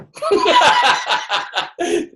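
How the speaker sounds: a rising burst of real laughter; high laugh. Real, not acted. Speaker laughing after his punchline to the crowd, a rising real laugh. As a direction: laugh at your own line.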